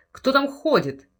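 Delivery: high, loud angry shout; furious roar. Acted. Henry shouts at intruders downstairs, angry loud shout. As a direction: bark at the footsteps below. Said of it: "в ярости гремит Генри".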